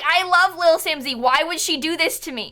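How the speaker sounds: high, loud mock-whimpering fan; whiny ban appeal. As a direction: plead like a wounded troll. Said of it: "They're all like".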